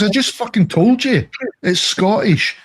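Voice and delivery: high, indignant retort; exasperated storyteller's comeback; retold exasperated reply. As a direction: re-enact losing patience, pitched well up.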